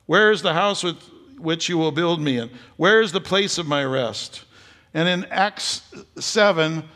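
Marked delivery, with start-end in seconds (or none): 0.0-4.4 voice of the Lord. Acted. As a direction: declare it like God speaking from the throne. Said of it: "The prophet Isaiah says".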